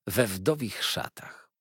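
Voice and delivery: "we wdowich szatach" drawn out slowly; underlined words. A narrator's reading. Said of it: "słowa te były podkreślone". (wolno, z naciskiem „we wdowich szatach”)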